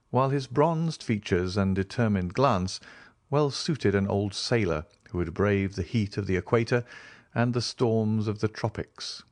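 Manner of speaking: usual speaking voice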